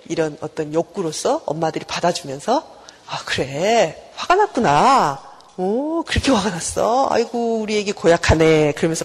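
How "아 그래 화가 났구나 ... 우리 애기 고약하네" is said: put-on slow, gentle cooing to a cranky baby; calm the little one down, drawing the words out; soothing mother. Mother soothing her angry baby, slow and tender.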